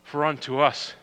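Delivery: soft, low reading of the verses; scripture reading. Acted. Reads scripture softly.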